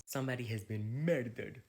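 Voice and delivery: hammed-up Scottish announcement; Scottish accent. Alan breaking bad news to the breakfast group in a mock Scottish accent. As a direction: put on your best Scottish accent. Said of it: "That was my best Scottish accent".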